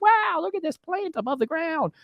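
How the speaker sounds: high, slow, gushing wonder at a plant; mock awe. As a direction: gush like a dazzled tourist. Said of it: "All the while we're just like".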